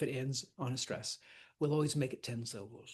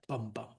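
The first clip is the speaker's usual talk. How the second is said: "bum bum" with the second beat stronger; iambic beat; 3 semitones lower, 4 dB quieter than usual. Shown as a demonstration. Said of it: "an iamb is that".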